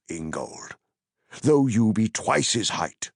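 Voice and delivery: lightly voiced, firm wizard; Gandalf vouching. Gandalf vouching for Pippin to Ingold, firm.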